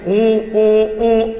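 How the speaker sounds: imitated held "oo" responses; child's listening hum. Drowsy child answering mother's bedtime story, imitated hums. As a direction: give short, level hums in turn. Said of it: "అన్న విల్-, పిల్లవాడు".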